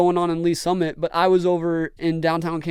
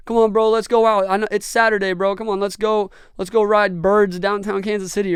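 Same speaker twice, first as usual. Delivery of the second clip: louder, higher, coaxing buddy voice; pushy friends; 4 semitones higher, 4 dB louder than usual. Retold or imitated. Friends urging him to ride Birds downtown, coaxing. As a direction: talk him into going out. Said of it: "there'd be other nights".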